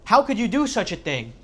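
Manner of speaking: high, loud retold outburst at Joseph; angry uncle shouting in disbelief; furious scream. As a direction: yell it at the top of your lungs. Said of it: "screams at the top of his lungs".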